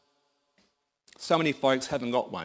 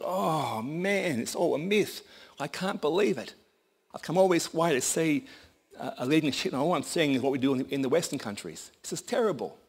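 higher-pitched, exasperated complaint; lightly acted letdown, pitched up; dismayed farmer; 5 semitones higher than usual. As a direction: moan it like a let-down traveler. Disappointed farmer voiced in story.

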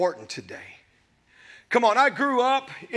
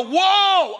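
firm whoa; 8 semitones higher, 5 dB louder than usual. Retold or imitated. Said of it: "know how to go".

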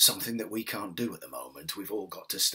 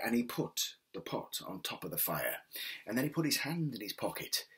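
gentle storyteller reading a folk tale; story narration. A narrator's reading. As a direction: tell it like a bedtime story. Reads a folk tale aloud.

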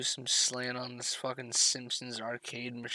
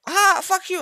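much higher, louder mocking yell; mock angry shout; 10 dB louder than usual. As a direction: snap back like an annoyed teammate. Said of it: "And they're like".

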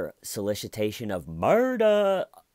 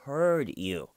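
relishing his line; 5 semitones higher, 5 dB louder than usual. Retold or imitated. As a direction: savor each word like the husband did. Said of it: "I love the way he says it".

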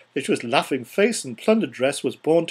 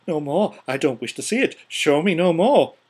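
mild desperate cry; 2 semitones higher, 4 dB louder than usual. Acted. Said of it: "cried Scrooge".

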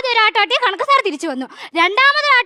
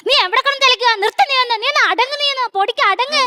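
raised bickering; 5 semitones higher than usual. Acted. Classmates quarrel on stage.

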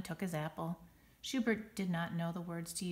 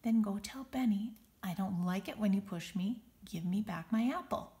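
slow firm. Acted. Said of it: "In a slow, firm voice".

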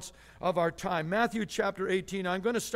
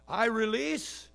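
slow declaration; 3 semitones higher, slower than usual. Shown as a demonstration. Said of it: "See the picture? Opposites".

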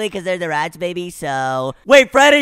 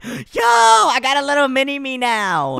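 excited gasp; 4 semitones higher than usual. Real, not acted. Gasp at hatching baby.

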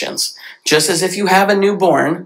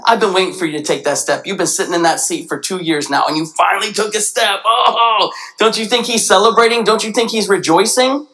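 high, delighted father's welcome; overjoyed father; 5 semitones higher than usual. Retold or imitated. God as a father welcoming Mike's step, joyful. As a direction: celebrate the son's first step. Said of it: "that father that's like".

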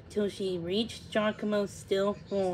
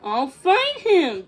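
slow, firm, louder promise; assuring; 7 semitones higher, 8 dB louder, slower than usual. A narrator's reading. The swallow promises to help Thumbelina, assuring her. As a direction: promise it firmly, slowly and high. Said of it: "Giacomo assured her".

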